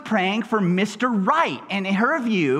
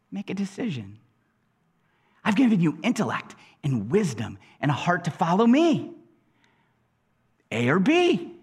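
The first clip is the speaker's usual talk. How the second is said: God answering; 4 semitones lower than usual. Retold or imitated. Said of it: "And God says".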